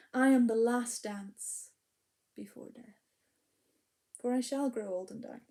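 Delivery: measured spoken-word poem with hushed endings; poem recitation. Acted. Poet performing her autumn poem to the audience, reflective recitation.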